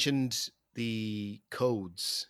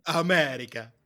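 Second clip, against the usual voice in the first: put-on American accent; 3 semitones higher, 4 dB louder than usual. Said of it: "That's the American accent".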